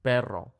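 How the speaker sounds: perro with a strong rolled trill; rolled double R. Shown as a demonstration. Teacher showing students a rolled R. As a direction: roll the rr in perro hard. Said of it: "in the word".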